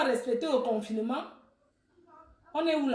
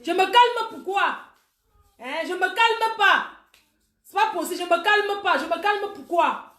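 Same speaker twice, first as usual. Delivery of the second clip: worked-up protest; 3 semitones higher than usual. Real, not acted. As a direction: protest hotly at being told to calm down. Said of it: "T'as dit de te calmer". (protestation agitée, indignée)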